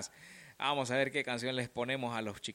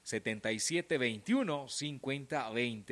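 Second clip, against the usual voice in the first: ad read. Acted. Radio sponsor ad read.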